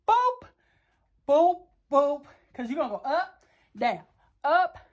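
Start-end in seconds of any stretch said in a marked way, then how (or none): 0.1-2.2 bouncy mock "boop" noises for each thrust; rhythmic boop sounds. Shown as a demonstration. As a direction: say "boop" in time, high and playful. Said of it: "Let me show you".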